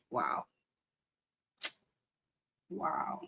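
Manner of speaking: awed whisper. Real, not acted. Moved by viewer comment.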